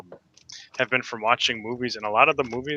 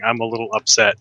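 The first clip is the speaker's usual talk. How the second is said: laughing; 3 dB louder than usual. Real, not acted. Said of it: "holding a sign saying".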